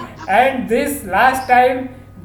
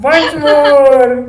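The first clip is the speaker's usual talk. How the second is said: loud mock crying call; 3 semitones higher, 6 dB louder than usual. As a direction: call it out in fake tears. Mock crying exercise, calling out.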